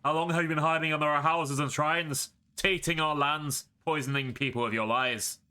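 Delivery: angry accusation. Acted. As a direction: confront her, anger building through pain. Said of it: "a grimace of anger and pain".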